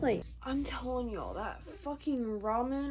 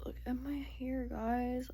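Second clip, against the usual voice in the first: softer whispered show-off; 6 dB quieter than usual. Real, not acted. Showing viewers her dyed hair, a whisper. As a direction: whisper it to the camera.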